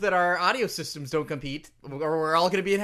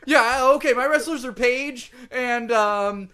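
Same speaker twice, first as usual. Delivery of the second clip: triumphant boast; 4 semitones higher, 7 dB louder than usual. Acted.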